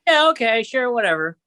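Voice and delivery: dismissive mock reply. Mocking the owners' reply.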